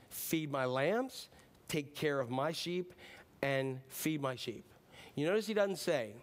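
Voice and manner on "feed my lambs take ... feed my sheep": hushed slow recap. Acted. Recap of the three commands.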